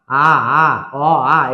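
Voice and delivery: আ and অ said light and thin; thin vowel. Shown as a demonstration. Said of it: "এটা হলো পাতলা". (পাতলা উচ্চারণ)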